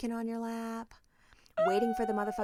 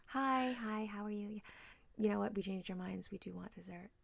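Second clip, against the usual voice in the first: sheepish customer voice; 7 dB quieter than usual. Retold or imitated. Sheepishly asking waiter for dessert.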